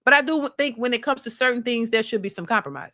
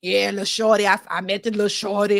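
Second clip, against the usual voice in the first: lightly voiced stud, a little lower and heavier; stud talk impression; 3 semitones lower than usual. Vlogger imitates how studs talk, lightly lowered voice. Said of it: "they might talk like this".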